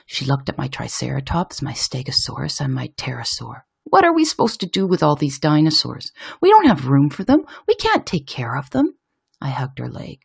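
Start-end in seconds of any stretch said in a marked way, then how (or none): 3.8-9.0 overwhelmed mum. Acted. Overwhelmed mum complains about dinosaurs.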